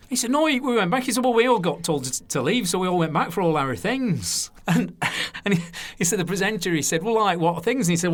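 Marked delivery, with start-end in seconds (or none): 0.3-1.0 high-pitched Lancashire denial; broad, raised Lancashire voice; Lancashire accent. Retold or imitated. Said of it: "So it's my Lancashire accent there". 1.2-4.5 lively, raised Lancashire impression; broad Lancashire, pitched up; Lancashire accent. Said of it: "So it's my Lancashire accent there". 7.0-7.9 lively, raised Lancashire impression; broad Lancashire, pitched up; Lancashire accent. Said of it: "So it's my Lancashire accent there".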